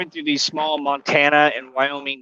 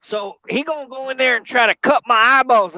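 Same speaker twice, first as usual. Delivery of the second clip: high-pitched, fretting imitation; mock worry, pitched up; imitated worried friend; 8 semitones higher than usual. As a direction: voice a worried friend higher than yourself. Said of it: "He said".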